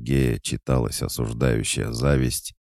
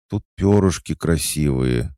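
put-on higher, shy little-child voice; shy, childlike; 4 semitones higher, 5 dB louder than usual. A narrator's reading. Cat goddess asks owner for pretty feathers, shy. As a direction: say it bashfully, like a child asking. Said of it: "застенчиво, словно ребёнок".

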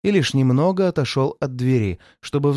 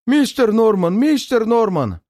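repeated shouting; 8 semitones higher than usual. A narrator's reading. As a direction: keep yelling his name. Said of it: "всё время кричал".

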